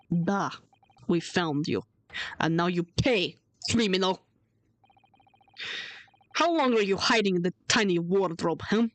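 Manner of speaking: put-on a touch of a Russian accent, threatening; lightly put-on Russian accent to a captured criminal. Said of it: "I'm trying my best to do a Russian accent".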